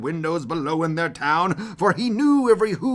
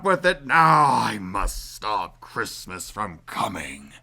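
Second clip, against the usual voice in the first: fume, then brood on how; Grinch plotting; 4 dB louder, slower than usual. Acted.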